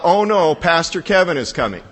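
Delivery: play-acted "uh-oh" fluster; mock alarm. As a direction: act out dread of an arriving visitor. Imagined panic before pastor's visit.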